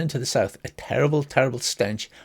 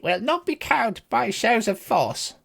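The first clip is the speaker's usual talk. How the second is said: defiant general; 6 semitones higher than usual. Acted. General answers threat with demand.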